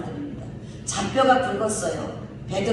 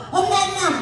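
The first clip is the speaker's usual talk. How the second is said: urgent calling; 9 semitones higher than usual. Shown as a demonstration. Child in trouble calling mother twice, urgently. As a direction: call mom like something went wrong. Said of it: "급하다는 거거든요".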